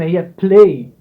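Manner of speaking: بلاي said slowly with a heavy b; heavy b play. Shown as a demonstration. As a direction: stretch out بلاي, leaning on the b. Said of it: "يعني بي تقيلة مش بي خفيفة". (نطق بلاي ببطء وبي تقيلة)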